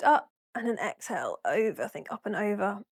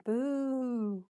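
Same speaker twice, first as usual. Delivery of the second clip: ghost boo; 3 semitones higher than usual. Pretend. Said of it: "or do they say boo".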